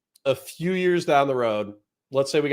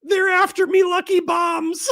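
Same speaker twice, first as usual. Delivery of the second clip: Irish lilt quote; 4 dB louder than usual. Retold or imitated. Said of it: "A F Racing says".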